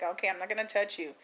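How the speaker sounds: understated soothing nurse; calm nurse. Retold or imitated. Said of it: "the nurse was calm".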